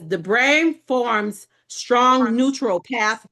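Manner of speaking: slow, careful reading voice; slow reading aloud. Shown as a demonstration. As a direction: read it out word by word. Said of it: "It says".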